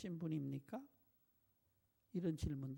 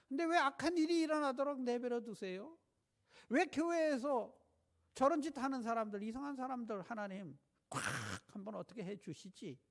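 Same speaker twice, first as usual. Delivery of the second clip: complaining to God; 4 semitones higher, 4 dB louder than usual. Retold or imitated. Voicing believers' complaint to God.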